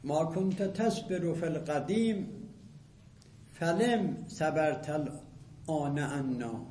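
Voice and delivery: slow, rhythmic reading of Arabic verse; poetry recitation. Shown as a demonstration. Teacher recites Abu Firas's poem to class, slow rhythmic chant. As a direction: chant the couplet, stretching the last words.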